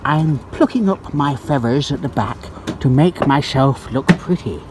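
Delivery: swan impression. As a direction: play a chatty swan greeting her babies. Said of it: "that's my impression of a swan".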